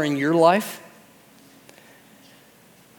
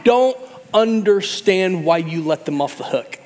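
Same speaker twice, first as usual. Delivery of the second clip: mock ranting Jonah; 9 semitones higher than usual. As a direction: rant like a sulking prophet. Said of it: "He's like".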